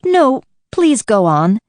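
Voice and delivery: humbly. Acted. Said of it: "Alice said very humbly".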